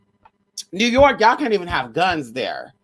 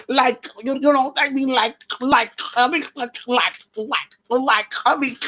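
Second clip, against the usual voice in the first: mocking impression of a halting, filler-filled talker; a rapper; 4 semitones higher than usual. Vlogger mocking how a rapper talks, higher halting put-on voice. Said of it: "She don't sound dumb as fuck".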